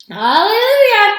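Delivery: high, loud, soaring cry; exultant holler; jubilant yell. A narrator's reading. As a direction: yell it out in triumph. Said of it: "yelled Grandpa Joe".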